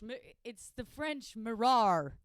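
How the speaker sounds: playful fake French; hammed-up French accent; mock French accent. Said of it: "mock French pronunciation".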